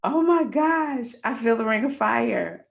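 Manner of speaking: replaying the push, high loud strained cry; pained cry. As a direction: cry it out at the peak of labor. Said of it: "And I'm like".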